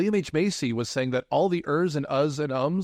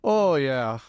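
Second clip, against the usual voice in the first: attempted Minnesota accent. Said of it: "That was so close".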